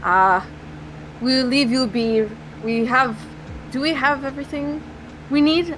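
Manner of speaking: measured, careful delivery with slight put-on accent; Slava. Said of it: "clears his throat and is like".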